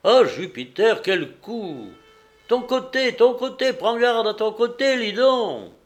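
high, loud cries from the stands; urgent shouted warning. A narrator's reading. Spectator warning the gladiator to guard his side, urgent shouting. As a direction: yell the warning as the blow is coming.

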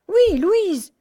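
high, loud and insistent; emphatic confirmation. Acted. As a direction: confirm it with rising fervour, voice swooping up. Doctor emphatically confirms the surprising name. (confirmation vive et appuyée)

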